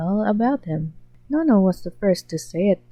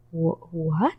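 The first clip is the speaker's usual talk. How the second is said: confused; 2 semitones lower, 4 dB quieter than usual. Acted.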